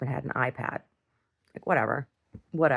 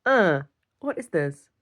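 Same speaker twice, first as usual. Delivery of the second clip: slow baffled take. Pretend. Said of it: "and I'm just like".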